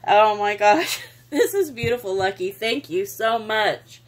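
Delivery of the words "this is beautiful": choked-up laugh over a gift; overwhelmed, a laugh on the edge of crying; laughing through tears. Real, not acted. Thanking her friend Lucky, laughing through tears. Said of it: "I'm big sappy baby".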